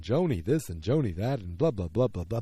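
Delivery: lightly voiced nagging mother, a touch dismissive; mocking mother-in-law. A hint of the demeaning mother talking down to Joni. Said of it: "the way her voice is, is very much like this".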